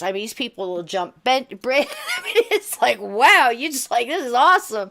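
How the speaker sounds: bubbling over with delight; excited. Real, not acted. Telling the host about lively Pentecostal church, excited and laughing.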